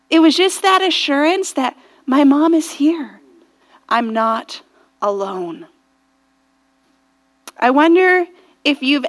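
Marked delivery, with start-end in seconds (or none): 3.9-5.7 soft, lower, settled voice; gently relieved, with a small pause; quiet reassurance. Retold or imitated. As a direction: let it sink down softly. Child's reassured thought, voiced softly.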